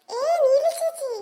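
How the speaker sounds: drawn-out call to get attention. Acted. A child calls to big sister, calling out. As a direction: call out slowly, stretching the name.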